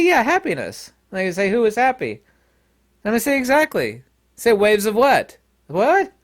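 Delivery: high, loud back-and-forth comic argument; mock bickering. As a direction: act out both sides getting worked up. Acted who's-on-first argument.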